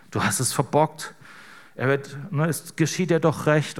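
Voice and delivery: a hint of a scolding inner critic, lightly voiced; mild reproach, as if a voice in your head. Preacher voicing the listener's inner critic, mildly scolding. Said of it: "innere Kritikerstimme in dir".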